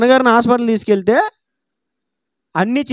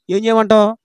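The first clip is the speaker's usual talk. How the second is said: dismissive nurse retort; curt nurse; 5 semitones lower than usual. Retold or imitated. Nurse snapping at the worried son, curt and dismissive. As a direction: toss it back, uncaring. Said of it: "ఇలాగే అంది".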